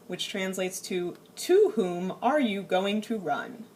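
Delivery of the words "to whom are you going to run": "To whom are you going to run?" said slowly and stiffly, overly formal. Shown as a demonstration. Teacher reading the formal translation to the class, stiff and slow. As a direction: read it like stilted textbook English. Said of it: "nobody in English actually talks that way".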